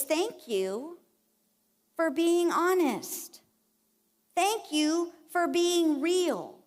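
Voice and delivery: slow, gentle and reassuring thanks. Retold or imitated. God gently thanking the believer, slow and reassuring. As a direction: ease each word out kindly. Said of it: "what he's gonna say is".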